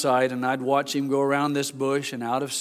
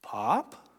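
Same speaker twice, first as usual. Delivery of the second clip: put-on small, soft, lower child's call; quiet little voice; 5 semitones lower, 7 dB quieter than usual. Grandfather retelling his grandson calling softly, quiet little voice. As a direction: call out timidly like a lost little boy. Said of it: "in a quiet little voice".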